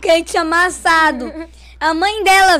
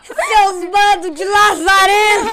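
xingamento encenado, gritado e arrastado; mãe xingando; 3 semitones higher, 3 dB louder, slower than usual. Retold or imitated. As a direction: imitar mãe revoltada soltando a bronca devagar. Imita a mãe xingando os médicos. (grito indignado de imitação)

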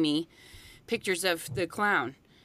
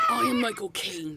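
high put-on British actor impression; playful attempt at a famous British actor's voice; Michael Caine; 14 semitones higher than usual. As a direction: have a go at the actor, pitched way up. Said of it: "trying not to do a Michael Caine impersonation".

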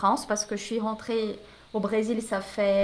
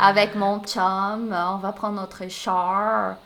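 slow, lower, lightly put-on Québécois French; playful Québécois accent; 4 semitones lower, slower than usual. Brazilian guest jokes about fitting in, light Québécois accent. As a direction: toss off Québécois slang in a light Québec accent. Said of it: "prends un peu l'accent du Québec".

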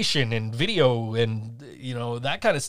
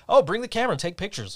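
imitated breezy request, pitched up; 5 semitones higher than usual. Partner casually asking for concert photos, imitated breezily. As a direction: toss out a mock-casual request, high at first.

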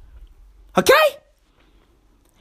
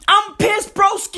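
high, exasperated complaint; worked-up comic venting; pissed off; 4 semitones higher than usual. Real, not acted. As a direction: insist on it, voice pushed up.

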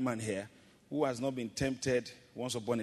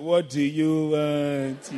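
annoyed wife; 9 dB louder, much slower than usual. Retold or imitated. Wife's irritated reply voiced.

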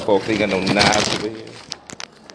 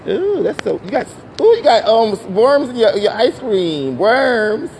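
mock disgust; 11 semitones higher, 5 dB louder, slower than usual. Real, not acted.

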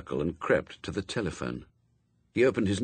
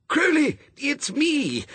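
high, strained urgent call; urgent angel; 4 dB louder, slower than usual. Acted. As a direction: get through urgently down the phone. Frantic angel calls on phone.

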